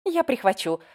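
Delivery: bright exclamation, pitch up; eager exclaim. A narrator's reading. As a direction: pipe up keenly. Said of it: "воскликнула Пегги Глэдис".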